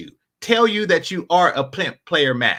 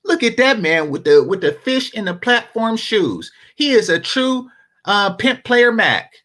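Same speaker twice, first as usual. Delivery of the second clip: mock hype man.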